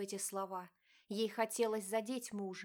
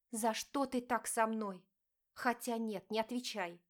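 wife confronting her cheating husband, pained; hurt wife. Acted. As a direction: plead and accuse at once. Diana pleads with husband.

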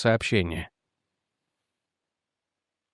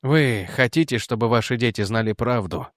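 sadly. Acted. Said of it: "печально сказал Реджи".

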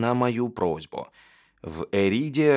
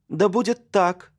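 с лёгкостью; 12 semitones higher, 5 dB louder than usual. Acted. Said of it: "с лёгкостью согласилась королева".

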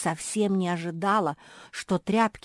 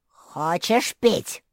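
louder, very slow taunting drawl; nasty dragon voice; 8 dB louder, much slower than usual. A narrator's reading. A dragon taunts the thirsty traitor, slow and nasty. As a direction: tease with false sweetness. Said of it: "осведомился противный голос".

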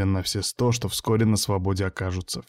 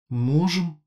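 hesitant; 6 semitones higher, 3 dB quieter than usual. A narrator's reading. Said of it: "неуверенно ответила".

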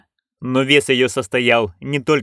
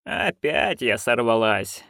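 rueful; 2 semitones lower, 4 dB quieter, slower than usual. Acted. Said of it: "сокрушённо подумала она".

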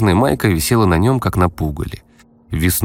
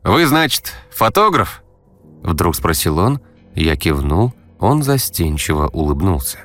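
put-on eager teen voice; 4 semitones higher than usual. Vadim shyly asks.

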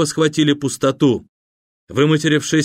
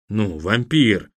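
offended tone; 4 semitones lower, much slower than usual. Acted. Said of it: "обиженным тоном молвил гость".

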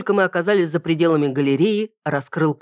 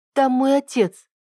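urgent; 9 semitones higher, slower than usual. A narrator's reading. Urgent cry about father.

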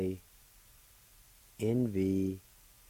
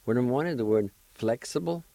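quick, a bit higher word announcement; quick teacher announcement; brisk announcing; 3 semitones higher, 3 dB louder, faster than usual. Shown as a demonstration. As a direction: rattle off the word number. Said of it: "now I'll pronounce these words".

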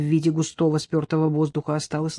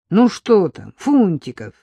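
displeased; 4 dB louder than usual. Acted. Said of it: "недовольно проговорил сержант".

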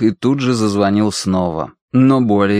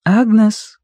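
calling again; 12 semitones higher, 4 dB louder than usual. A narrator's reading. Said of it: "снова позвала Киврин".

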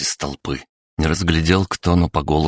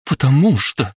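strained, choked, higher and louder; choked rasp; 10 semitones higher, 4 dB louder than usual. A narrator's reading. Grieving mother answering through a choked throat. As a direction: force the words through a tight throat. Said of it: "сдавленно прохрипела Алла".

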